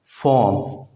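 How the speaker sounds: फॉर्म said fom, no r at all; British form without r. Shown as a demonstration. Teacher demonstrating British pronunciation. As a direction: say फॉर्म with the r silent. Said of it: "आर को नहीं पढ़ते".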